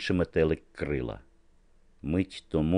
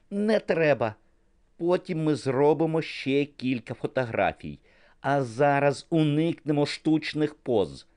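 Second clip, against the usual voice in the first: higher, eager directing voice; excited photographer; 9 semitones higher than usual. A narrator's reading. Niki brushes off the director, eager higher voice. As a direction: wave off the director, keen and high.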